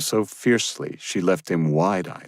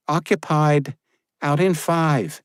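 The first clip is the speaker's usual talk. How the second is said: higher, shouted call through the door; yelled; 10 semitones higher, 3 dB louder, slower than usual. Acted. Josephine calling out to the knocker, yelling.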